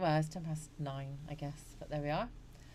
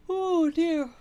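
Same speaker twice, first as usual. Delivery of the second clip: oh dear; 10 semitones higher, 10 dB louder than usual. Real, not acted. Reacting to her painful flight story.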